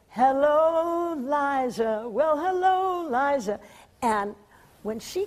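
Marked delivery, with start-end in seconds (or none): 0.1-3.6 drawn-out showbiz hello; sing-song diva greeting; grand entrance. Retold or imitated. A showbiz star sweeps onstage greeting her daughter, drawn out. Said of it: "and she went".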